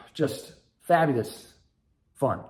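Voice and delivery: dry mock delight at a miserable wait; sarcastic. Real, not acted. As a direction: say it like it was anything but fabulous. Sarcastic about the stuck plane.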